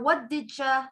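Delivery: "what did ya" as "whadidja"; "did ya" blurred to "didja"; reduced. Shown as a demonstration.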